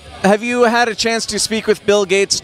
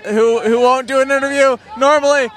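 hammed-up red carpet host; gushing red carpet chatter; 4 semitones higher than usual. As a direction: gush like a showbiz reporter.

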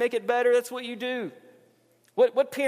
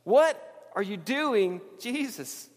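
Peter, stunned, protests to Jesus in a lightly raised voice; mock Peter protest; 5 semitones higher than usual. Peter pleads with Jesus not to wash his feet, mock astonished. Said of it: "the first words Peter says is".

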